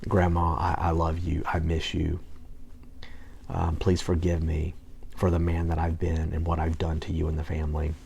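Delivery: soft sincere plea; tender letter. Retold or imitated. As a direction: read it gently like a love letter to grandma. Reading his letter to grandma.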